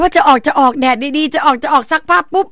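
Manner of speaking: lively, high and loud mini-drama; animated acting-out. Acting out weather foiling laundry plans.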